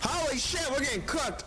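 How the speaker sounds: high cackling alarm; laughing panic. Real, not acted. Boss overwhelming them.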